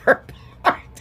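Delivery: high, breaking up with laughter; laughing. Real, not acted. Crafter cracking up at her own explanation, laughing. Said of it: "I can't stop laughing".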